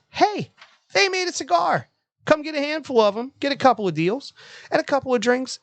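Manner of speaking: high, hammed-up ad announcer; announcer voice imitation. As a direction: read it like a cheesy radio ad. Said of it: "I like how he says light meal".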